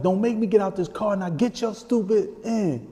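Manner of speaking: high-pitched, insistent demand; retold threatening order. Uncle orders the man into his car, retold threat. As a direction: order him in as the uncle, drawing out the end.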